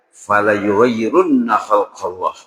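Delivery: slow, measured Arabic verse recitation; slow Quran recitation. Acted. Preacher recites the verse to the congregation, slow and solemn. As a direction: intone the verse deliberately.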